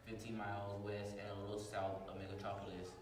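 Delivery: dramatic radio narration; radio serial narration. Acted. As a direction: narrate like an old radio show.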